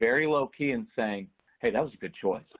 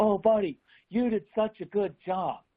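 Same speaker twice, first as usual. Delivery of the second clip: exaggerated, overt gushing tone, pitched very high; 9 semitones higher than usual. Showing how overt praise to kids sounds, overdone gushing praise. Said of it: "I don't do overt praise with these kids because here's what it sounds like".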